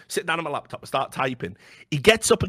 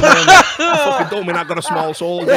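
laughing furious shout, much higher and louder; temper tantrum; 5 semitones higher, 9 dB louder than usual. Retold or imitated. Ranting at the mocking journalist, laughing furious shout. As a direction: blow up at him, half laughing. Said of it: "So I was going full temper tea".

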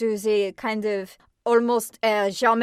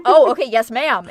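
mom voice; 7 dB louder than usual. Retold or imitated. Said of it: "mom voice".

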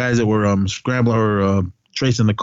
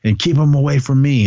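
mildly heated, higher-pitched telling-off; retold irritated outburst; 4 semitones higher than usual. Chief of staff telling off an agent, retold irritation. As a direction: act out a testy brush-off. Retold angry brush-off, then storms off.

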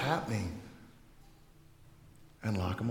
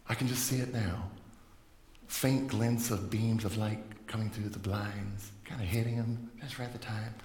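lightly put-on hushed, low dreamy voice; lightly mock a rosy picture, low and soft; mock idyllic narration; 4 semitones lower, 5 dB quieter than usual. Preacher picturing himself reading in morning light, mock-idyllic low voice. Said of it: "I don't know why I'm talking like that".

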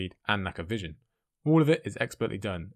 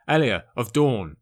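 louder and slow, dragging out the name; demanding shout; 3 semitones higher, 9 dB louder, slower than usual. A narrator's reading. Oberyn to Gregor, forcing him to confess, slow loud demand. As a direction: hurl the name at him like a blow.

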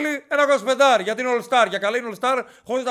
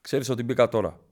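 low, hushed conspiratorial voice; lightly acted gossip sharing secrets; mock secretive confidant; 9 semitones lower than usual. Contestant secretly warning a newcomer about outside gossip, low and hushed.

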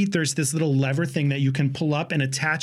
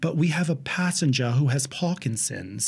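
put-on New Zealand accent; 3 semitones lower than usual. Flight attendant apologizing to passenger about moving someone, New Zealand accent. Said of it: "The New Zealand flight attendant comes over".

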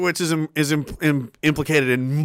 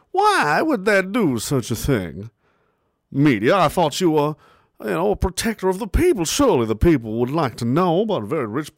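mock naive outrage. Sarcastic naive voice about media.

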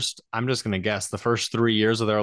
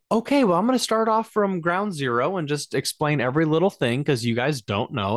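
patronizing higher voice, spelling it out; condescending nurse; 6 semitones higher than usual. Retold or imitated. Nurse talking down to clueless new parents, mildly patronizing. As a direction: talk down like to a child. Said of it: "change in their demeanor towards us".

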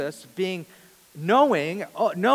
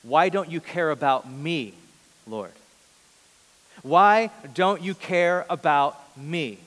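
resentful plea; 4 dB louder than usual. Retold or imitated. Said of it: "She was basically saying".

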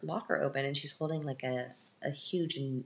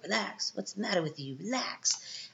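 higher, odd voice easing into a whisper; homeless man; 6 semitones higher than usual. Acted. Man with a snake calms the frightened girl, whispering. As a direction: soothe her like a strange stranger. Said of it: "he's like".

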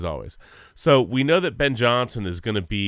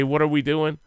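quoting coach; 5 semitones higher than usual. Retold or imitated. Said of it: "can you say".

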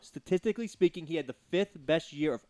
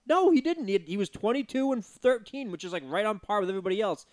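emphatic retold retort; 4 semitones higher than usual. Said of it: "And I'm like".

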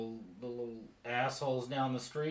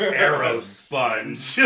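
loud, drawn-out sounding out; slow word-by-word repeat; 7 dB louder, much slower than usual. Acted. Innkeeper taking a note on a napkin, slow deliberate repeat. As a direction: stretch both words as if jotting them down.

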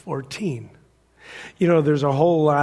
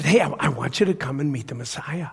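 higher, eager rush of an invitation; Philip's excitement; 4 semitones higher than usual. Acted. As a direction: act out an excited friend urging him along. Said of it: "Nathanael heard Philip's excitement".

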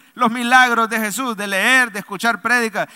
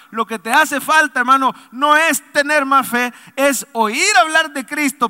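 preaching with force; 5 semitones higher, 4 dB louder than usual. Real, not acted. Pastor presses the point to the church.

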